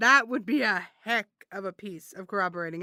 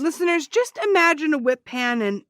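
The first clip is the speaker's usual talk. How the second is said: high, loud appeal to the audience; insistent announcement; 7 semitones higher, 7 dB louder than usual. Acted. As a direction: call out to the listeners, insisting. Addresses the listeners over objection.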